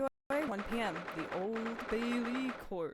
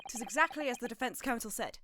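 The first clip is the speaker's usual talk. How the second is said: light Irish lilt; Irish accent; 6 semitones higher than usual. Acted. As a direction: speak with a mild Irish brogue. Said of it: "my Irish accent".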